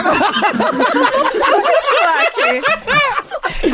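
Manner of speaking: laughing through the words, slowly; can barely get the words out. Real, not acted. Laughing while trying to continue.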